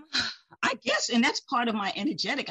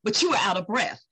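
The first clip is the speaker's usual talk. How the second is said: husband quote louder; 2 semitones higher, 6 dB louder than usual. Retold or imitated. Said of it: "He was like".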